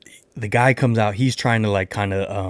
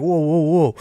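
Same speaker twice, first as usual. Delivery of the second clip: higher-pitched string of whoas, cutting in; raised-pitch retold objection; retold protest; 7 semitones higher, 3 dB louder than usual. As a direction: imitate trying to halt an argument. Retelling his alarm in argument.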